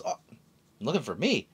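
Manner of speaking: lightly voiced carefree Luffy reassuring her; Luffy telling Bonnie he was always there, cheerfully. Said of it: "And Luffy goes".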